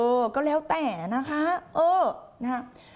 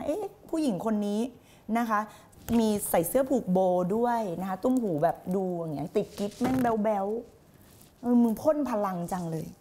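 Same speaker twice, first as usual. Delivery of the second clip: imitating puzzled newcomer. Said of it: "คนที่เพิ่งเข้ามาฟังใหม่ งงนะ".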